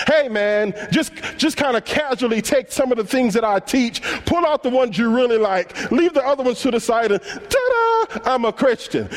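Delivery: hammed-up breezy mock teaching; mock a lazy gospel breezily; mock casual Jesus. Preacher mocking cafeteria Christianity as fake Jesus, breezy and hammed-up. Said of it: "no place where Jesus ever taught".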